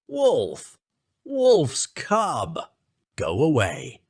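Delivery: high, shrieking curse; priest shouting. Acted. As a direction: drive the wolf-boy off. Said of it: "shouted the priest".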